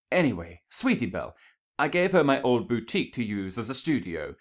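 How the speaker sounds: Rarity bragging about her sister to her date; Rarity's voice. Acted.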